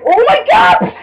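high, loud outburst of disbelief; shocked cry. Real, not acted. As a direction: cry it out high, stretching the second one. Shocked reaction during the game.

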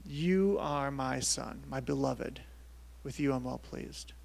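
slow opening, softening to the end; measured and hushed toward the close; God's declaration. Acted. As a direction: speak it slowly as a tender pronouncement. Voices God's declaration to Jesus.

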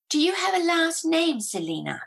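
high, loud prying witch; old witch voice. A narrator's reading. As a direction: ask slyly like an old witch. Witch asks, much higher.

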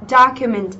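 "Document" with DOC leading, falling away after; stress on first syllable. Shown as a demonstration. Teacher repeating for students, "Document" stressed on the first syllable. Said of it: "chúng ta có trọng âm giêm tiếp thứ nhất".

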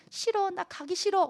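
small, high, soft mock whine; timid refusal. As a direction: shrink away from the summons.

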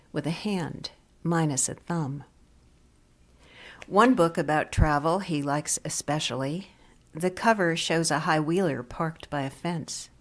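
deliberate poem recital, pausing between phrases; poetry reading. Acted. Visiting teacher's poem about a librarian, measured poetry reading. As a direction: give each image its own space.

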